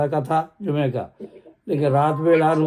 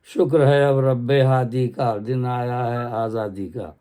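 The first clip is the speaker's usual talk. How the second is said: slow, measured poem recital; stately nazm recitation; 3 semitones lower, slower than usual. Acted. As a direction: recite each line slowly and with weight. Nazm refrain. (باوقار انداز میں آہستہ نظم خوانی)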